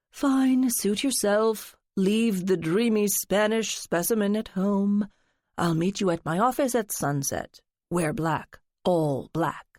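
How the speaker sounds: lightly voiced theatrical friend, coaxing; a hint of a dramatic gossip fishing for secrets; flamboyant friend. Friend teasing narrator to spill her secret, lightly flamboyant. Lance giving orders.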